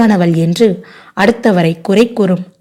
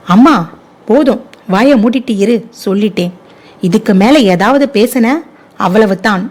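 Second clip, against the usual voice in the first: sharp raised cry on அம்மா, then firm; angry outburst, cutting her mother off; daughter shouting at mother; 3 semitones higher than usual. Acted. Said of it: "சுடர் கத்தினாள்".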